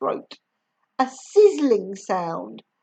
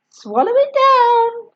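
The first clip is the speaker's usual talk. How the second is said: higher, louder urging; George urging; 11 semitones higher, 6 dB louder than usual. A narrator's reading. George forcing the dose down Grandma, high urging voice. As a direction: push her to swallow it. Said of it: "George cried out".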